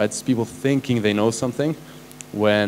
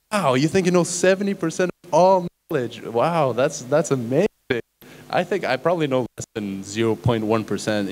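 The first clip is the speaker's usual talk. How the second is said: mock astonishment; 3 semitones higher than usual. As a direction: act stunned at the claim, pitched well up. Retelling his own astonished reply.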